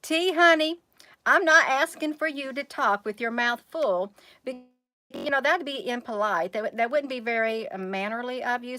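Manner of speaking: gentle parent scolding. Real, not acted. Mother scolding child mid-video.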